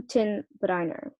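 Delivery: Hüttenbrenner said as HOO-ten-BRY-ner. Shown as a demonstration. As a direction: say Hüttenbrenner German-style, ending like "BRY-ner". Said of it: "that sounds more German".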